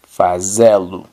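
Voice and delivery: fazê-lo as fa-ZE-lu, closed ê stressed, falling; Portuguese fazê-lo. Shown as a demonstration. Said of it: "acento circunflejo sobre la E".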